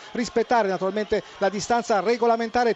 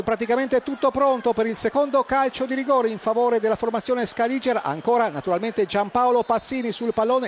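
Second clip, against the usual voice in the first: breathless italian goal commentary. Real, not acted. Live penalty play-by-play.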